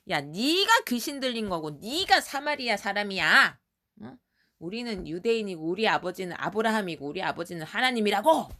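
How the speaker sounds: mock indignant arguing, stretched emphasis; acted defiant retort. Jews arguing back at Jesus, acted defiant voice. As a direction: talk back like an offended crowd. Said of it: "막 대들었어".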